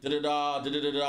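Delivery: nonsense syllables standing in for a rant; imitated tirade without words; mimed rant. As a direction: rattle off da-da-da filler. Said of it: "I was just talking a bunch of shit".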